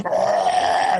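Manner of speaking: rough comic scream without words; imitated scream. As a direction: imitate a labouring woman's holler. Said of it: "Screaming her fucking full head off".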